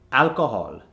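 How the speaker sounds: alcohol with a rounded "o" at the end; Indian accent. Shown as a demonstration. Coach gives the word to convert, Indian accent. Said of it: "from the Indian accent".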